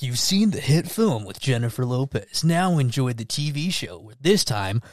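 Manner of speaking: hammed-up TV ad pitch; lightly voiced commercial announcer; promo announcer. Imagined TV show promo.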